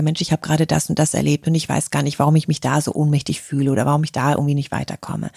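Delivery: calm serious confiding; calm serious talk. Shown as a demonstration. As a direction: confide calmly to a friend. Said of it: "wenn's an die ernsten Themen geht".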